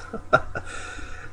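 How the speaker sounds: a breathy little chuckle under the breath; soft chuckle. A narrator's reading. Matthias amused by the question, soft chuckle. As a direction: laugh quietly to yourself. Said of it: "Matthias chuckled".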